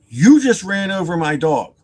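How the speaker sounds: loud accusation, mock-upset; retold accusation. Dog owner confronting the driver, loud accusation. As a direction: accuse him, raising your voice.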